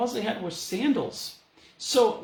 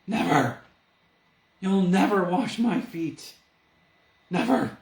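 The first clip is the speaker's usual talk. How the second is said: louder, flat refusal; Peter refusing; 6 dB louder than usual. Retold or imitated. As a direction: plant your feet and refuse, louder. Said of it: "Peter says".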